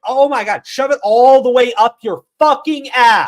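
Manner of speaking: ranting back at the critics, loud and angry; furious rant. Retold or imitated. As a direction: let the rage spill out. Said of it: "You're like".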